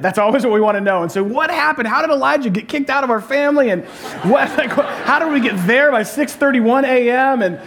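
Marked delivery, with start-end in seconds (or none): 1.2-7.4 higher, half-laughing parent interrogation; mock exasperated mom. Pastor voices his wife questioning the kids, high and amused. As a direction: ask like a tired referee mom, laughing through it.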